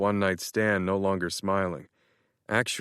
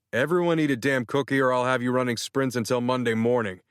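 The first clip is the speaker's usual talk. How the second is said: snapping; 4 semitones higher than usual. Acted. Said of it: "what made me snap".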